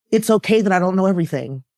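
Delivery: holding back tears while speaking; choked up. Real, not acted. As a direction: voice tight with real emotion. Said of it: "I'm getting choked up talking about it".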